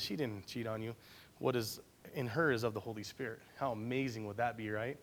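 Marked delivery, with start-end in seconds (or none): 0.0-3.4 angel voice. Retold or imitated. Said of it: "an angel comes to you and says".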